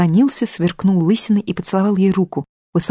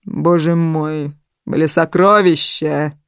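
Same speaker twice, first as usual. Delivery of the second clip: slow lament; much slower than usual. Acted. Natali laments lost treasure.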